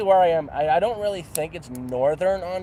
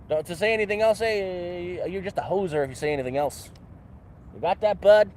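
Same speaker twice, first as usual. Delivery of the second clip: hammed-up Canadian; 3 semitones higher than usual. Mock-scolds viewer as a Canadian.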